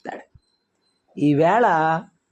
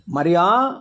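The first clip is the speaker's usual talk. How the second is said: calling a name with authority, last vowel drawn upward; authoritative call; much slower than usual. Acted. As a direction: call her by name like a master. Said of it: "ఈ అధికారంతో పిలిచేది ఎవరు". (అధికారంతో పిలుపు)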